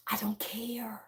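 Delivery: very soft, near-whispered brush-off; dismissive. Real, not acted. Speaker to critics of how they talk, dismissive. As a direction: say it under the breath, barely voiced.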